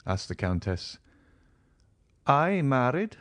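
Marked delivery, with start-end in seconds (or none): 2.3-3.2 higher and louder, startled; shocked exclamation. A narrator's reading. Count to the countess asking if he married, exclaiming. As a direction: recoil at the idea. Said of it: "exclaimed Monte Cristo, shuddering".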